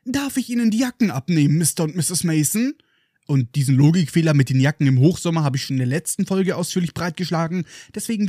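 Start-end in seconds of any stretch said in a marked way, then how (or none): 0.0-2.7 Dudley. Acted. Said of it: "ertönt von der Diele her Dudleys Stimme".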